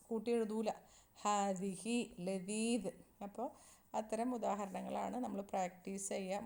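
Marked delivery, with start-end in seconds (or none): 1.2-2.9 slow model reading. Shown as a demonstration. Teacher reads Arabic example slowly.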